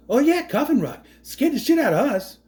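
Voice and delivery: hammed-up Boston bravado; Mark Wahlberg impression. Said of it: "I would love Mark Wahlberg to play this role".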